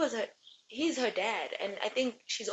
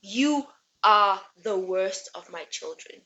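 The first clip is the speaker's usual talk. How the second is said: mild angry father. Retold or imitated. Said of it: "Helios gets mad".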